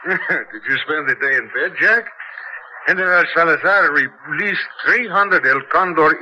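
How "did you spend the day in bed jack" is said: chuckling through the question; laughing tease. Acted. Editor teases colleague.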